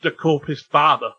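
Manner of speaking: amateur stab at Cockney; roughly imitated Cockney; attempted Cockney accent. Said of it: "who can do a Cockney accent".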